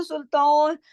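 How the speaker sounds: सुल्तान with a pause at the end, no nunation; stop on the word. Shown as a demonstration. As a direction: stop there. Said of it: "सुल्तानन नहीं पढ़ेंगे". (आर्जी सुकून के साथ सुल्तान)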